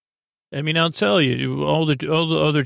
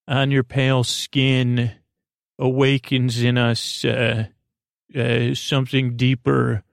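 mock ode; slower than usual.

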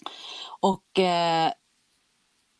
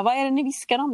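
higher, puzzled demand to be let in; questioning retort; 7 semitones higher, 3 dB louder, faster than usual. Retold or imitated. Patient asks staff what they whisper about, questioning. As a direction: ask it pointedly, pitched up.

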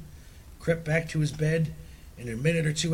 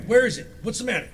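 alarmed; 8 semitones higher, 5 dB louder, faster than usual. A narrator's reading. Husband wakes in alarm.

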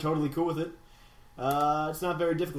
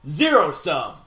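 slow, grand standings announcement; mock-epic, stretched-out ring announcer; 4 dB louder, slower than usual. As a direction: boom out each place like a title fight. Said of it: "That was way too epic".

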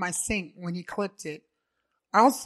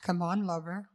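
breathy. Acted.

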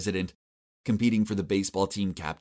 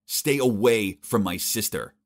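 slow, louder threatening warning; growled warning; 5 dB louder, slower than usual. Acted. Vincent warning the boyfriend off his sister, slow loud threat. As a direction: lean on each word as a threat. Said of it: "Vincent immediately growled at me".

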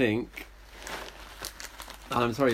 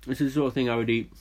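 mouth full; 2 semitones higher, faster than usual. Real, not acted. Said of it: "my mouth is so full".

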